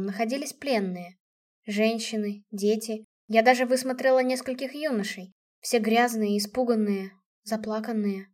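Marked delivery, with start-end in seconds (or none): none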